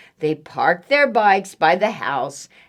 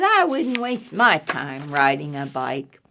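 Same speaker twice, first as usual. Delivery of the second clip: lower, understated catty disdain; dismissive cat, recapped; 4 semitones lower than usual. Acted. Reader repeats cat's thought, lower understated disdain. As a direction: sink low, dismissing the idea.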